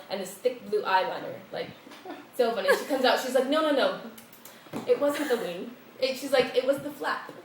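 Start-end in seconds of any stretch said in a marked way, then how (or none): 3.5-5.7 lightly voiced European lady, higher; a hint of a Dutch airline lady, higher; mock European airline lady. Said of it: "European to the core". 6.5-7.3 lightly voiced European lady, higher; a hint of a Dutch airline lady, higher; mock European airline lady. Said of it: "European to the core".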